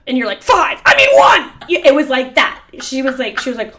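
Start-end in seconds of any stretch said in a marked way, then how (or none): 0.4-1.5 rising high, louder self-correction; high flustered riddle answer. Retold or imitated. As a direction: catch yourself mid-answer.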